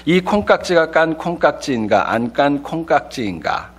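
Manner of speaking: crisp standard announcer diction; 또박또박 아나운서 발음 연습; announcer drill. Shown as a demonstration. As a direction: enunciate like a trainee announcer. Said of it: "아나운서들이 처음에 훈련을 할 때, 이 발음 연습".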